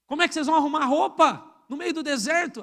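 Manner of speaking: a hint of a sceptic jeering at pilgrims; mocking doubter. Preacher voicing a scoffer at the desert people, mild mockery. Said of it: "alguém diz para eles".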